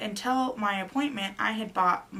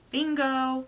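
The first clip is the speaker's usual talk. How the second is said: higher, louder, held-out exclamation; triumphant announcement; 5 semitones higher, 5 dB louder than usual. Retold or imitated. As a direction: imitate a technician calling out her find. Technician announcing she found twins.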